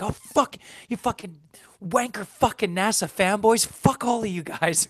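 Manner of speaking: retold snapping. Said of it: "I just ended up snapping".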